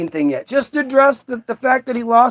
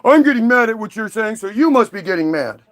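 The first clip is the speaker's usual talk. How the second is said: mocking troll voice; faster than usual. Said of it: "that's what it would do".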